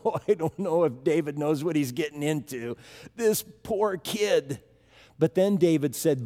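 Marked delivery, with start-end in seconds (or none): 0.0-4.6 doubtful murmur, the last words slowed right down; a worried crowd pitying the boy; worried onlookers. Retold or imitated. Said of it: "And they're going".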